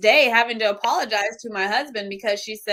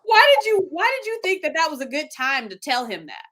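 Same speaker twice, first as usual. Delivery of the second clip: higher, incredulous scolding, loud at the start; sister scolding; 6 semitones higher, 4 dB louder than usual. Retold or imitated. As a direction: sister telling her off in disbelief. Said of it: "she said".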